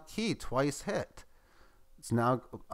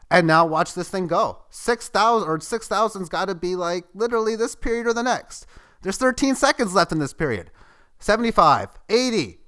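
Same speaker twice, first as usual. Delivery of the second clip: raised, louder, mounting excitement; live countdown energy, pitched up and loud; excited anticipation; 5 semitones higher, 6 dB louder than usual. Real, not acted. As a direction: count the price up with rising excitement. Live price nearing a milestone.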